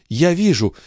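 mother seeing her son in a vision, high; entranced seer. Acted. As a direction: caught by the vision. Seer sees him again.

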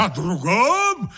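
slow, mock-triumphant bellow; a triumphant «О другом?» thrown back; triumphant roar. A narrator's reading. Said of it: "заревел я торжествующе".

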